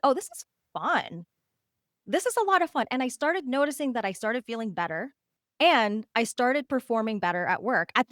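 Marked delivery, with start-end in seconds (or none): 0.0-2.9 1 delighted discovery. Retold or imitated. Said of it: "I was like".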